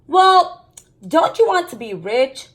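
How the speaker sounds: put-on mother teasing the kids at dinner; Mom's teasing question. A narrator's reading. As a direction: nudge the kids playfully as mom. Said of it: "Mom asked".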